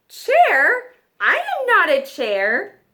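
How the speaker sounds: loud, offended protest; indignant giraffe. Acted. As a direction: giraffe insisting he is no chair.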